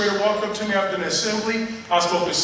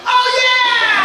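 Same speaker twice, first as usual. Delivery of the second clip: much higher, loud sudden recall; excited girl; 5 dB louder than usual. Retold or imitated. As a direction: shoot up, thrilled to remember. Girl leaps up remembering.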